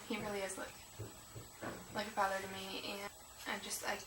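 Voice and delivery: getting choked up talking about her teacher; holding back tears. Real, not acted. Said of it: "my eyes starting to tear up a bit".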